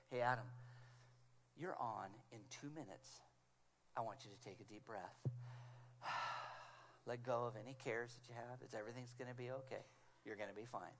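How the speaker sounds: calm him down gently before he goes on; hushed reassuring backstage voice; very nicely. Retold or imitated. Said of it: "very nicely".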